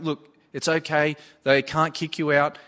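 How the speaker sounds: usual speaking voice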